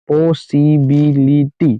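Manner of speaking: "पॉसिबिलिटी" slowly as five even beats, पॉ, सि, बि, लि, टी; split into syllables. Shown as a demonstration. Teacher confirming five syllables, "पॉसिबिलिटी" slowly split beat by beat. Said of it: "पांच syllable का word हो गया".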